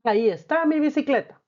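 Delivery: alegría demostrativa; joyful exclamation. Shown as a demonstration. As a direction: show the class happy relief at finding it. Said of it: "¿Te fijas cómo hemos usado los signos?".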